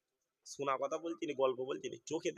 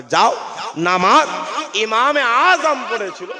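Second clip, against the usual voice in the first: roaring sermon, shouted; preaching at full force; 7 semitones higher, 20 dB louder, slower than usual. Acted. Preacher roaring the sermon to the gathering. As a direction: thunder it out to the crowd.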